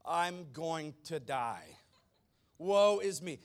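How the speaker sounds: loud, slow, panicked wail of doom; terrified cry. Acted. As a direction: cry out as if about to die. Isaiah's terrified cry acted out.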